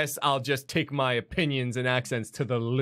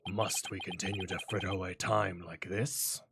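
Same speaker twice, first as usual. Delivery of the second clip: prosecutor voice; 2 semitones lower, 3 dB quieter than usual. Acted. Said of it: "I'm mixing two voices now".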